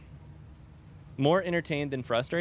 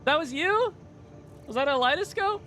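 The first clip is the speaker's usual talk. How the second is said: mock-gasping wait, that was you?; retold surprise; 14 semitones higher than usual. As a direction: replay the shock of recognising a fan. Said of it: "I was like".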